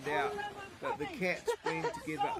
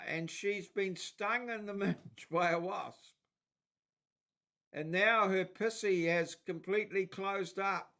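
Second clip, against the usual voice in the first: slightly louder, higher read of a phone call; lightly acted helpline call; 4 semitones higher, 4 dB louder than usual. Streamer acts out Aussie helpline joke for viewers, lightly acted phone call. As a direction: lightly play both ends of a chirpy helpline call.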